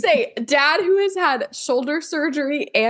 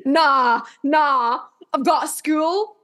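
higher, slow, badly done imitation of the video's accent; a bad stab at the video's accent, higher and drawn out; hammed-up imitation of the TikTok accent; mock accent from a video; 3 semitones higher, much slower than usual. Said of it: "we can't do the accent right".

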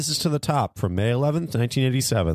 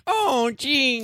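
meek squeak; 11 semitones higher than usual. Retold or imitated. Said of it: "voice instantly goes to".

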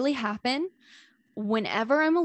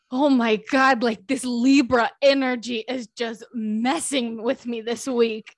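lightly imitated Russian accent, louder and dramatic; 4 dB louder, slower than usual. Gas station attendant venting about Libra energy, mock Russian accent. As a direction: retell it with a hint of a comic Russian accent. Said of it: "he had a very strong Russian accent".

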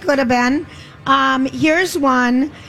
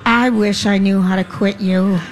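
manly voice; 4 semitones lower, slower than usual. Acted. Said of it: "That was my manly voice".

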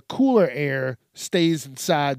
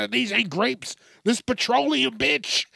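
sassy reply; 9 semitones higher than usual. Retold or imitated. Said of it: "They're like".

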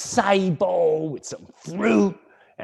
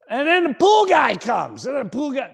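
high-pitched comic exasperation; exasperated climax; 10 semitones higher than usual. Real, not acted. Comic telling of one more visitor arriving, exasperated. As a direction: let the voice leap up in disbelief.

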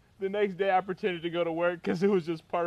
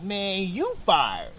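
slow, drawn-out mock firing; joking; 3 dB louder, much slower than usual. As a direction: stretch it out, tipping into a laugh. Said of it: "didn't really laugh like that".

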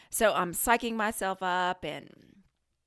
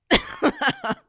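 very high, loud burst of laughter; squealing laugh at yourself; real laughter; 6 dB louder than usual. Real, not acted. Laughing at own panicked text.

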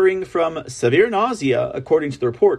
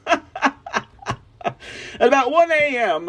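high, slow, laughing through it; cracking up mid-sentence; laughing mock report; 7 semitones higher, much slower than usual. Reading his own joke report aloud, higher and slow, laughing. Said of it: "I'd be like".

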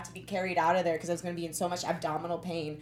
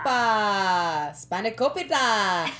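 playful shout; 6 dB louder, slower than usual. Pretend. Playful Greek exclamations.

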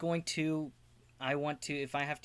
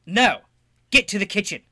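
very loud, higher shouted order; desperate shout; 8 semitones higher, 16 dB louder than usual. Acted. Inverna yells at her little brother to run, loud. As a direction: yell at him to flee. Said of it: "And say".

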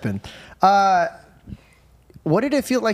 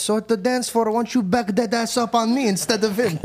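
mock dad flirting; 5 semitones higher than usual. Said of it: "He's like".

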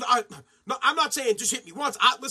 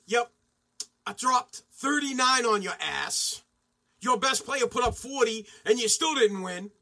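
smug taunt; slower than usual. Retold or imitated. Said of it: "what I would do if I was Kyrie".

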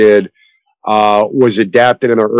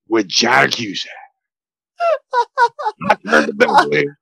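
Al Pacino impression; 3 semitones higher than usual. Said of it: "as Al Pacino".

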